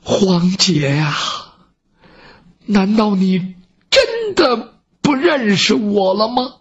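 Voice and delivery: put-on slow, mildly trembling plea to an old friend; a touch of tremble, holding back tears, slow. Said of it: "颤抖着声音说". (声音微颤，缓慢地含泪相问)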